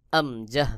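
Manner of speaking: আমজাহ slowly, in two separated syllables; demonstrated pronunciation. Shown as a demonstration. Teacher shows where hamza starts, আমজাহ said slowly. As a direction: sound out আমজাহ slowly from the throat. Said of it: "যেমন".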